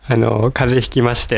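stuffy nose from a cold; nasal voice. Real, not acted. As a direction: talk through a blocked nose. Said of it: "こんな鼻声ですけど。".

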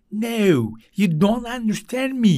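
imitating a British speaker; light posh British English accent. Teacher mimics an Englishman saying the same line, in a British accent. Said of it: "İngiliz konuşurken".

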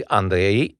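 "Andrei" with a brief double-tapped R; just two vibrations on the R of "Andrei". Shown as a demonstration. Actor counting down R vibrations, brief roll. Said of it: "e două".

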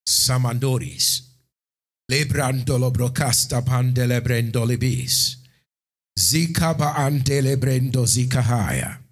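rapid flowing tongues prayer; speaking in tongues. Acted. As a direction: pour out fluent tongues. Praying in tongues.

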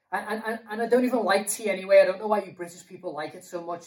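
fast, stammering tangent; flustered rambling. Acted. Guilty friend rambles about tea while confessing, fast and flustered. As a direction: gabble nervously off the point.

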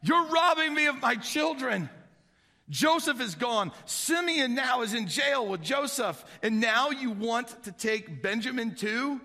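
high, loud, slow lament; anguished cry to God. Acted. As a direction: plead with God in despair. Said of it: "He turns to God and he's like".

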